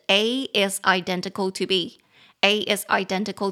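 A is identical to B said slowly, leaning on DEN in identical; slow teaching demo. Shown as a demonstration. Teacher modelling the sentence pattern, slow and careful. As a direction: spell out the pattern slowly for students. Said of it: "重音节在第二音节".

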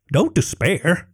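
high, small kobold voice; a meek little lizard servant; timid kobold. Acted. Kobold comforts dragon.

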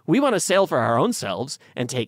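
high, rowdy mutineer pirate voice; rowdy pirate crew. Retold or imitated. Crew voiced defiantly ditching their orders to sail for themselves, rowdy and high. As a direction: toss off the captain's orders with a whoop. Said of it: "Culliford and a bunch of the crew decided".

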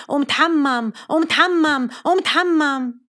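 mild mock nagging. Mother repeats order.

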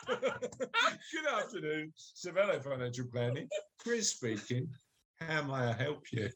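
low posh greeting after a laughing start; posh phone voice. Pretend. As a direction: compose yourself into the business owner. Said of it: "I'm putting my posh voice on".

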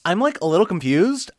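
lightly put-on listener voice with swooping tune; Colt Burr. Co-host reading a listener's question, light impression. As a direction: read it out as a mild impersonation of a confused fan. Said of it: "I'll do my real Colt Burr impression".

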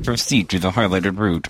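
flat GPS robot voice. Shown as a demonstration. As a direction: read it like a sat-nav robot. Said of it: "Do it again".

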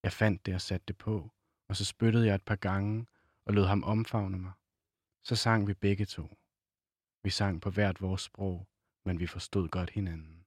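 measured novel reading with pauses between phrases; literary reading aloud. A narrator's reading. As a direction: read the passage aloud, unhurried.

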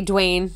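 "Dwayne" as one beat, dwayne; "Dwayne" with D and W run together; one-syllable Dwayne. Shown as a demonstration. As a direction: say "Dwayne" in a single syllable, rhyming with rain. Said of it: "one syllable".

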